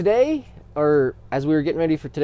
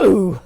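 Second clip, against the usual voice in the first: cut-off ooh-rah; 6 semitones higher, 7 dB louder than usual. Acted. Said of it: "cut off my ooh-rah".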